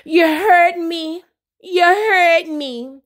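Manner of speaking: mock wounded, drawn out slowly; slow, hammed-up hurt. She accuses Carly at dinner, slow mock hurt. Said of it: "And look at her".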